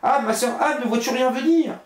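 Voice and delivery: calling out in growing fear; anxious calling. Acted. The wife calls sister Anne again as Bluebeard waits, anxious high call. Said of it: "Et puis elle criait".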